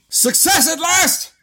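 high mock triumph; hammed-up triumphant cry. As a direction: crow it like a victory.

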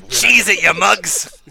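lightly voiced old-time mobster; a hint of a twenties gangster. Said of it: "gangsters from the twenties".

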